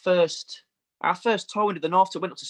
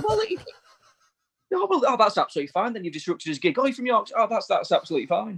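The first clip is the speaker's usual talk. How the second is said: mock sarcasm; 5 semitones higher, faster than usual. Sarcastic retort to the fan.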